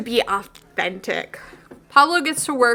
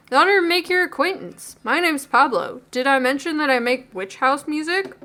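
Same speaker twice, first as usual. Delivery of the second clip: put-on barista voice; 3 semitones higher than usual. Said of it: "This is probably not his voice".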